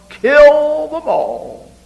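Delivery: high, loud and slow, relishing each word; boastful threat. Acted. A proud killer boasts of wanting to kill them all, loud and slow. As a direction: lean hard into a vicious boast.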